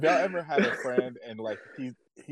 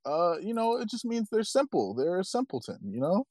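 friend's voice; 9 semitones higher than usual. Retold or imitated. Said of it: "and he was like".

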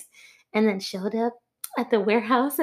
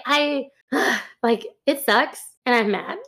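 sighing, mildly deflated; defeated. Retold or imitated. Manager losing her worker to Disney, mildly defeated. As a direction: sigh and give in, imitating a defeated boss. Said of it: "she's just so defeated".

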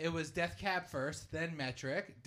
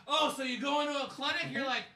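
roasting excited; 7 semitones higher, 4 dB louder than usual. Retold or imitated. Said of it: "I'm like".

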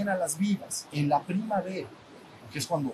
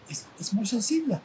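whisper; 6 semitones higher than usual. Real, not acted. Whispered aside.

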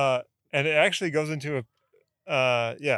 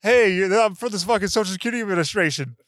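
scam caller skit; 3 semitones higher, 4 dB louder than usual. Pretend. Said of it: "That would be a great skit".

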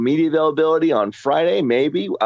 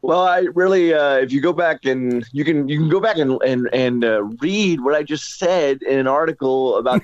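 strangled voice. Real, not acted. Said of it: "it's why I sound like I'm being strangled because I have no voice".

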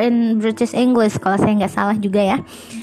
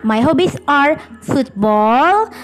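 slowly spelled-out correct sentence, stretched out; slow corrected model; 2 semitones higher, slower than usual. Shown as a demonstration. Teacher slowly models the corrected sentence for students. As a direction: model the fix for students word by word. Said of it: "jadi harusnya".

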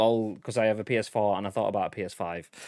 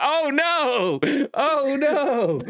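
much higher, louder mock wail of letdown; disappointed fan; 4 dB louder, slower than usual. Streamer mocking fans at a bad Halo reveal, high mock wail. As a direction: whine like a gamer who waited years for nothing. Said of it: "It's like".

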